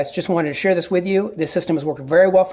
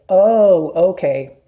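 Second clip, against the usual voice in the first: friendly acknowledgment; 6 dB louder, much slower than usual. Shown as a demonstration. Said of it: "And when you say".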